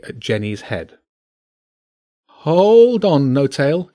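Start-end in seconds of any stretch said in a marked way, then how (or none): 2.3-3.9 nervous, high and louder plea; shaky. A narrator's reading. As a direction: call out anxiously to hold them off. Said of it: "James said shakily".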